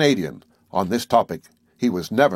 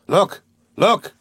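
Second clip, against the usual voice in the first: much higher, louder excited cry; excited exclaim; 10 semitones higher, 5 dB louder than usual. A narrator's reading. Harpooner spotting the whale, excited cries. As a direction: shout it out as the whale nears. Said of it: "exclaimed, his voice full of excitement".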